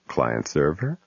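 soft, low seductive murmur; sultry voice. Retold or imitated. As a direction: purr it like a come-on. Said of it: "said in a sultry voice".

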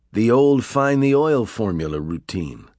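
dismissively. Acted. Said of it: "Pitt said dismissively".

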